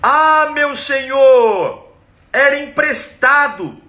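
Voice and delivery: high, loud, drawn-out wail; anguished cry. Acted. Boy crying out to God over the lost axe, loud wail. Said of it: "ele dá um grito".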